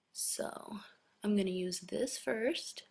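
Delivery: talking with mouth held open; mouth propped open. Real, not acted. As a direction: speak through an open-mouthed mascara face. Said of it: "sorry for my stupid mascara face".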